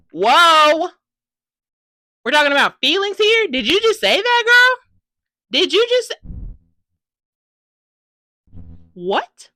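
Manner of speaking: high, loud disbelieving exclamation; shocked outburst. Retold or imitated. Fan reacting to a sudden love confession, shocked shouting. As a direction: blurt it out, floored by the news.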